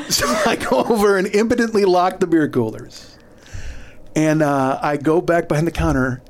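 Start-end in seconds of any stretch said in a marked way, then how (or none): 0.1-3.2 higher voice with laughter in it; amused. Real, not acted. Comic admitting he locked empty coolers, amused. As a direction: tell it through leftover laughter.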